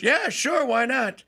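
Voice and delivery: high, breezy mock yes; a light carefree Saquon voice; imitating Saquon. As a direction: toss off a casual yes as Saquon. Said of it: "but Saquon goes".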